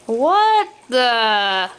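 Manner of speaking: mild shout of shock; storybook shout of disbelief. A narrator's reading. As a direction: blurt it out, startled. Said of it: "Bob shouts".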